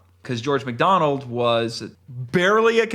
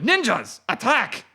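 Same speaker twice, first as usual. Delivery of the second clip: shouting; 5 semitones higher than usual. Acted. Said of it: "and shouted".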